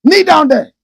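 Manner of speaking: put-on loud, high order in a Northern accent; senior's accent. Senior mispronouncing kneel down while bullying junior, loud. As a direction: bark it with his accent. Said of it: "He couldn't even say kneel down".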